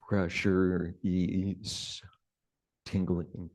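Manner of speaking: unhurried meditation guidance with long pauses; guided meditation. Real, not acted. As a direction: gently guide them into sensing the body, leaving space between phrases.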